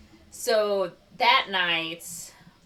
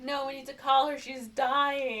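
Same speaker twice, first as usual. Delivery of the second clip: mock panic; 7 semitones higher than usual. Acted plea about sick daughter.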